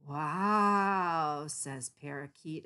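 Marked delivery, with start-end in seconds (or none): 0.1-1.5 louder amazed wow; amazed gasp of a word; astonished. Acted. Parakeet stares at kitty, astonished.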